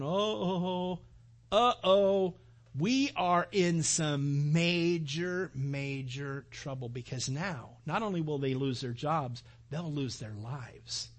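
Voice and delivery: mock panicked official, slowing down; a hint of dread sinking into trouble; freaking out. Jailer realizing he beat a Roman, mild mock panic. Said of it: "this guy's freaking out".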